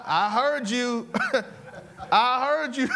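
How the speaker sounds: drawn-out teasing with laughter; amused teasing. Retold or imitated. Teacher letting students know he overheard, laughing teasingly. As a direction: tease them slowly, chuckling between phrases.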